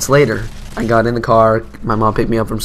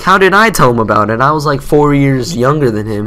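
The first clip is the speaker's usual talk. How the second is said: acting out a defensive protest; mock indignant protest; 3 semitones higher, 5 dB louder than usual. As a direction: plead innocence, a touch worked up. Retold protest to his mom.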